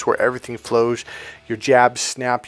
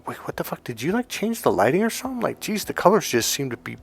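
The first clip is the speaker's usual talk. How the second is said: amazed disbelief; 5 semitones higher, 6 dB quieter than usual. Acted. Acts out client's amazed reaction.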